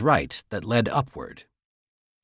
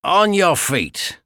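slow, higher, louder command; snapped order; 6 semitones higher, 4 dB louder, slower than usual. Acted. Guard ordering the captive up, slow snapped command. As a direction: bite off each word like an order. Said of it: "the first guard snapped".

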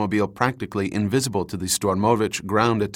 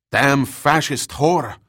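higher, drawn-out angry bellow; hoarse, enraged bawl; 5 semitones higher, 4 dB louder, slower than usual. A narrator's reading. Wounded soldier cursing outside the farmhouse, hoarse enraged bawl. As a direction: bawl it slowly in rage and pain. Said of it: "His voice was hoarse with rage and pain".

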